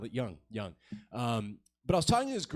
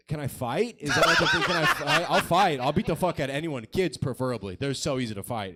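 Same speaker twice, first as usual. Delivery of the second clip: eager shouting; 6 dB louder than usual. Retold or imitated. Begging show bookers to let him fight.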